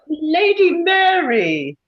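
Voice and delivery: high, delighted hostess greeting; beaming. Acted. Hostess greeting her guest on entering, beaming and high. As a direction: sweep in and greet an old acquaintance. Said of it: "a beaming Lady Danbury entering".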